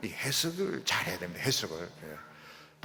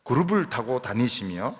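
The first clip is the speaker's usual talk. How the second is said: scripture reading; 4 dB louder than usual. Acted. Reads the psalm aloud.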